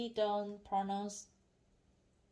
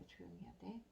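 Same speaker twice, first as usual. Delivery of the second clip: much softer quick aside to herself; hushed aside; 14 dB quieter, much faster than usual. Real, not acted. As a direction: drop suddenly to a hush mid-talk. Hushes herself while filming.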